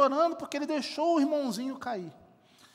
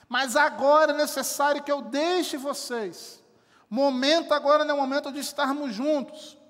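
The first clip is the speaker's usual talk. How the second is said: louder, earnest preaching voice as Jesus; Jesus comforting disciples; 3 semitones higher, 4 dB louder than usual. Retold or imitated. Jesus telling his disciples he must leave, loud and earnest. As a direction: comfort the disciples with full conviction. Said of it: "ele vai dizer".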